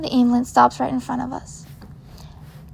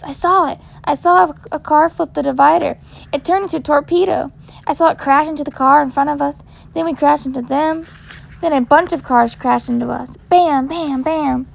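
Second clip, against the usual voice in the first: put-on excited little boy; 2 semitones higher than usual. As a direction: rattle it off like an adventure. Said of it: "Izzy thinks we're having an adventure".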